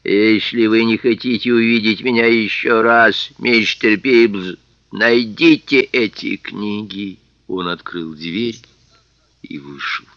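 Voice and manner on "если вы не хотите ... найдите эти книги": slow, dreadful, a touch low; low terrible voice. Acted. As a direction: menace him without turning. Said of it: "низким, ужасным голосом".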